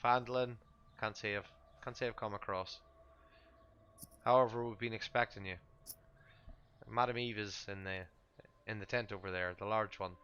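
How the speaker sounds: lightly voiced camp host, courteous and easygoing; a hint of a Vistani traveler. Vistani directing visitors to Madame Eve's tent, lightly in character.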